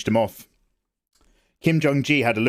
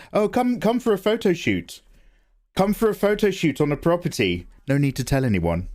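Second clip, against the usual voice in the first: higher sing-song sly invite; mock lure; 6 semitones higher than usual. Streamer voices a sly invite to Bill's isolated estate, mock sweet higher lure. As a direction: coax them in, sweetly sly. Luring voice in joke.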